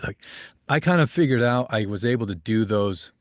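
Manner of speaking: ordinary talk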